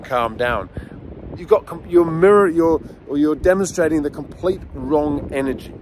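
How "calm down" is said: normal talking voice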